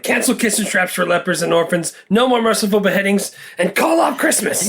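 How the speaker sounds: rising villain sneer; Sheriff of Nottingham. Retold or imitated. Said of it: "the Sheriff of Nottingham".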